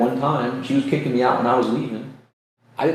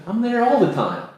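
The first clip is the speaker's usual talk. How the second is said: higher, gently voiced God; God's voice; 6 semitones higher than usual. God answering the speaker about being there all along, gently voiced. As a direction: say it as God would, lightly. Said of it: "He's like".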